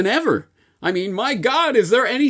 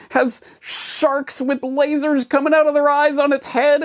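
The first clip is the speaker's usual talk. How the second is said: higher, hyped fanboy YouTuber voice; gushing tech fanboy; Johnny YouTuber voice; 3 semitones higher than usual. Acted. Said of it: "No, I am not Johnny YouTuber".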